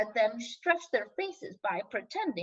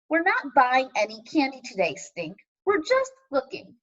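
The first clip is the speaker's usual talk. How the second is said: lightly voiced mother saying no; a hint of a stern mother; 3 dB louder than usual. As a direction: mom calmly refusing, barely changed voice. Mother refusing child candy.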